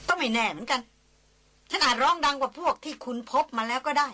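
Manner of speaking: lightly voiced Christina, testy and sharp; irritated young woman. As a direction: snap back at the guide, annoyed and proud.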